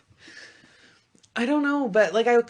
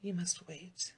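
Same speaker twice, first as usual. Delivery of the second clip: teasing; 13 dB quieter, slower than usual. Real, not acted. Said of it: "You're a tease like that".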